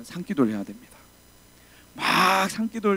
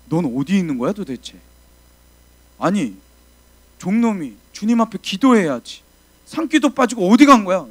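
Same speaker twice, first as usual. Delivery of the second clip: scolding; 4 semitones higher, 9 dB louder than usual. Retold or imitated. Pastor scolding on the phone.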